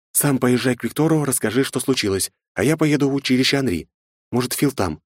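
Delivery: quick commanding mother; urgent orders. A narrator's reading. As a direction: give orders in a hurry. (торопливые распоряжения)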